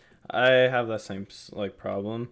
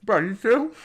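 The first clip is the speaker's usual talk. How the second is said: high, loud disbelief; shocked; 12 semitones higher, 7 dB louder than usual. Real, not acted. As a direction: pitch up in shock. Spots friend's food, shocked.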